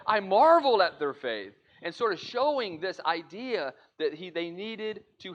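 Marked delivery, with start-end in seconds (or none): 0.1-1.6 admiring. Acted. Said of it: "and he would say".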